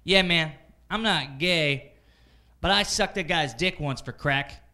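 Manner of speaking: slow, emphatic mock confession; meeting confessor. Man sharing at an AA meeting, slow mock confession. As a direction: draw out a frank confession as another man. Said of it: "this one guy raises his hand".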